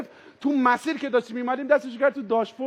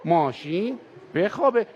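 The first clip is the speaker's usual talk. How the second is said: lullaby to the car; 5 semitones lower, slower than usual. Retold or imitated. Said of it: "اومد کنار ماشین وایساد، گفت".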